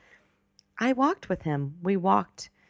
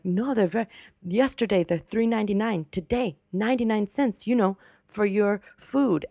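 higher-pitched mock Italian accent; imitated Italian accent; 6 semitones higher than usual. Older man quoting prices to shopper, imitated Italian accent. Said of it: "his thick Italian accent".

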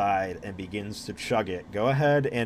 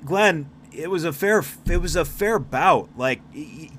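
higher, louder tavern patron; hearty bystander; 5 semitones higher, 4 dB louder than usual. Acted. Patron tells Glenn the bout was fair, higher and louder. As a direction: cheerfully settle the argument. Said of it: "one of the guys, like, walks in".

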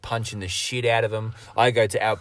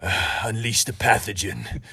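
bad American accent; 4 dB quieter than usual. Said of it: "It's just a bad accent".

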